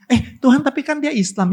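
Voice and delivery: a high, protesting whine to God; high objecting voice. Acted. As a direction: pitch it up like a reluctant man arguing. Voicing reluctant man objecting.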